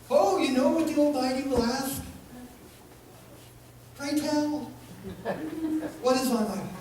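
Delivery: put-on high, bemused Jewish accent for God. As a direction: tease him gently in a Jewish accent. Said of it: "God speaks with a Jewish accent".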